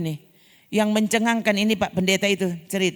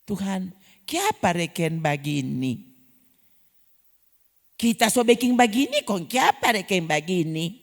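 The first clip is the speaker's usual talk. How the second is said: a hint of a whining believer; mock complaining prayer; 2 semitones lower, slower than usual. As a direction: grumble at God.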